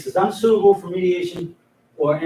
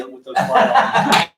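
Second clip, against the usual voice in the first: winded, breathless laughter; out of breath; 6 semitones higher than usual. Real, not acted. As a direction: talk while short of breath. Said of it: "I'm out of breath".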